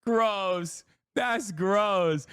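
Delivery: real disgust, pitch climbing with each repeat. Real, not acted. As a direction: groan it out in mounting revulsion. Disgusted reaction to fawning laughter.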